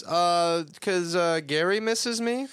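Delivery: high, loud mock nervous stammer; nervous excuse. Nervous excuse voiced in recap.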